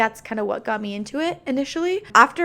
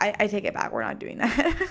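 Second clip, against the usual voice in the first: usual speaking voice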